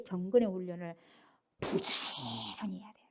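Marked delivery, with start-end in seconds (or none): 1.6-3.0 slow, low, whispery stretch on the first word; hushed emphasis. Real, not acted. Preacher urging daily discipline, hushed slow emphasis. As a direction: draw it out in a breathy hush.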